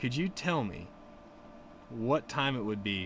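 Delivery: ordinary talk, nothing marked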